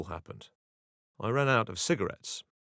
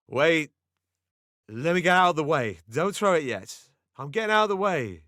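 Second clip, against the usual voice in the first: high, loud panicked pleading; slurring panic; 8 semitones higher, 7 dB louder than usual. Retold or imitated. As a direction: scramble away in a frantic panic. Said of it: "in a slurring panic".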